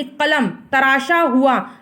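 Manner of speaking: कलम said slowly from the throat; धीमे और साफ़ उच्चारण; slow careful pronunciation. Shown as a demonstration. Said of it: "गले से आवाज़ निकली".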